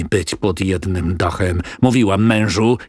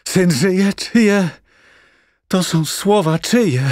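a grieving mother's raised, wailing lament; a lightly voiced grieving mother, half-sobbing her accusation; raving blind mother; 5 semitones higher than usual. Blind mother accusing the senator, mildly voiced grief. Mother hears son lives.

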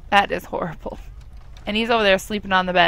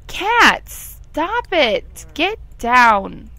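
high, loud "Cat" then firm commands; scolding the cat; 6 semitones higher, 5 dB louder, much slower than usual. Pretend. Scolding the sim cat to get down, loud and sharp.

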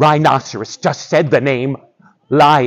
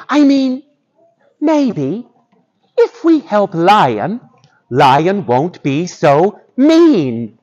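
lightly voiced tentative mouse; slow, careful little mouse reasoning; 4 semitones higher, slower than usual. Mouse explains to the animals.

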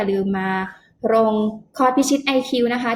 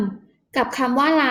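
slow spelling out; 2 semitones higher, much slower than usual. Shown as a demonstration. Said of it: "ก็เอาคำว่าก".

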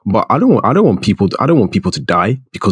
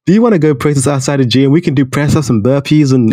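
put-on American dude voice; badly faked American accent, starting high; 5 semitones higher than usual. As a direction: do a hammed-up American buddy pitching a plan. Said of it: "That's my American accent".

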